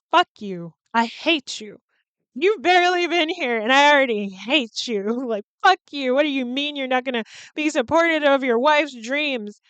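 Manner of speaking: loud indignant outburst at the husband; hammed-up fury at a TV husband; mock angry rant. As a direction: tell off the husband, loud and fed up.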